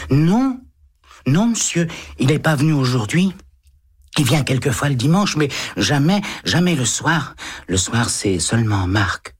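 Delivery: put-on a boy quickly correcting the policeman; surprised little boy. A narrator's reading.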